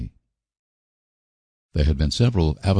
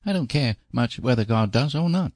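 put-on high, happy little-boy voice; a child's relieved cheer, pitched high; joyous; 8 semitones higher than usual. A narrator's reading. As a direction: burst out gladly as a small boy. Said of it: "said Davy joyously".

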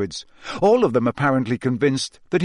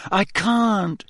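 panting; 7 semitones higher than usual. Acted. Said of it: "Harry panted".

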